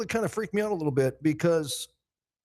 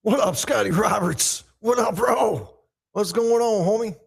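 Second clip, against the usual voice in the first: hyped greeting; 4 semitones higher, 6 dB louder than usual. Real, not acted.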